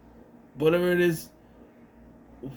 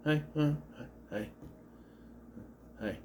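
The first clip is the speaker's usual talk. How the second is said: mock casual greeting; 5 semitones higher than usual. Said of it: "No big reveal, just he's there".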